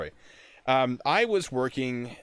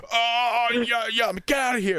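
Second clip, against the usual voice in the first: flustered private; 14 semitones higher, 6 dB louder than usual. Retold or imitated. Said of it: "He's like".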